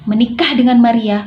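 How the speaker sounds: mild menace, firm and measured; threatening. Shown as a demonstration. Novel villain warning a young man at his parents' grave, threatening. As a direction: read it as a stern threat with punched words. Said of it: "contoh intonasi mengancam".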